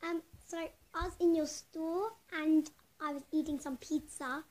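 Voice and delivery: put-on prank caller faking an Australian accent. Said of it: "I'll do my Australian accent".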